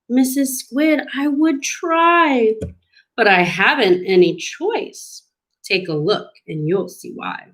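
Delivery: mild mopey excuse, sinking at the end; lightly voiced helpless fish. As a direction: start pleading, drop into resignation.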